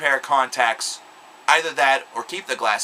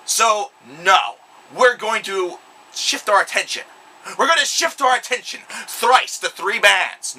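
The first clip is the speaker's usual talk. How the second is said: much higher and louder, a furious monster bellow; Godzilla roar; 8 semitones higher, 5 dB louder than usual. Retold or imitated. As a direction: yell it like an enraged giant lizard. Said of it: "Godzilla would ... would say".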